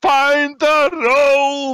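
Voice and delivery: shrill, very high in-character shout, word drawn out. Playing a character in a dark pit, yelling at another character: yelling in character. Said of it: "I start yelling at him".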